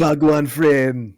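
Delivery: laughing. Real, not acted. Recalling a funny night, laughing.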